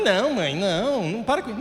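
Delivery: soft, mumbled refusal; muffled protest. Retold or imitated. Son in bed refusing his mother's prayer, muttered protest. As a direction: fend her off under your breath.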